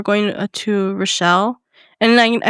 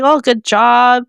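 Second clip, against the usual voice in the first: nice praise, louder and drawn out at first; nicely encouraging; 4 dB louder than usual. Shown as a demonstration. Showing how she could praise weight loss, nicely encouraging. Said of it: "but say it nicely".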